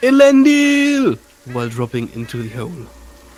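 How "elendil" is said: high, loud, drawn-out war-cry scream. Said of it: "and I scream".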